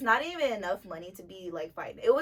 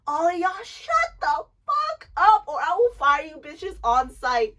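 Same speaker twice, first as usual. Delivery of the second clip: a much higher, slow, drawn-out yell at the dancers; manager screaming; 6 semitones higher, 3 dB louder than usual. Retold or imitated. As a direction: bellow it like a fed-up boss. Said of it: "seeing him scream".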